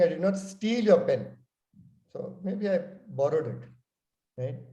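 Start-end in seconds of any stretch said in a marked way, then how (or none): 0.0-1.4 "your" lifted as the key word; stress on your. Shown as a demonstration. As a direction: lean on "your" to hint it was someone else's. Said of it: "And here you're saying".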